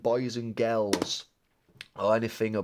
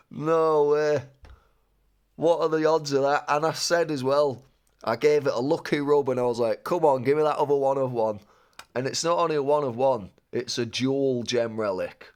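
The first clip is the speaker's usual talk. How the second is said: real excitement; 4 semitones higher, 5 dB louder than usual. Real, not acted. Celebrating a rare card pull.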